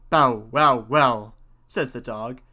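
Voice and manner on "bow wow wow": loud barking woof; dog bark. Acted. Dog barks in story.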